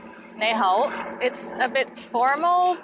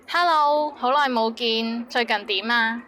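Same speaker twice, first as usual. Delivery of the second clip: cheery reunion greeting. Shown as a demonstration. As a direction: greet an old friend warmly.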